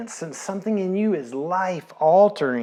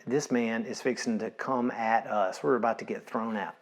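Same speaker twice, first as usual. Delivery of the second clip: hushed, softer worried thought; anxious inner thought; 4 semitones lower, 7 dB quieter than usual. Retold or imitated. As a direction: think it nervously to yourself. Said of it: "And I'm thinking".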